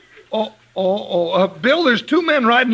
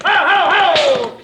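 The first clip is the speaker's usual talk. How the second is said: shouting at mules; 3 semitones higher than usual. Acted. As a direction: holler the mules into the water. Driving mules into the river.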